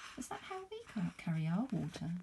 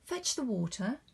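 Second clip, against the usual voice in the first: high call across the compound; 7 semitones higher than usual. Acted. Mother calls Fatu from the house, high calling voice. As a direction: call her daughter from afar.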